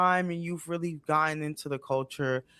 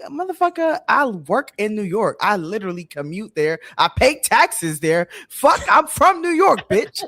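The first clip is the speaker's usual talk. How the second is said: higher and louder, building to a mock furious yell; retold rant; 4 semitones higher, 6 dB louder than usual. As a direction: blow up at them as you retell it, rising into a shout. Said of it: "Best rant".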